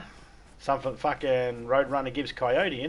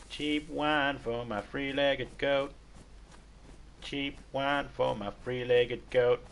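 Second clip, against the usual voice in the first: goat voice; 3 semitones higher, much slower than usual. Retold or imitated. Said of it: "that is the best goat impression".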